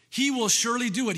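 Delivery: ringing, fast affirmation; emphatic proclamation. Shown as a demonstration. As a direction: proclaim it with conviction. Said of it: "another emphatic word".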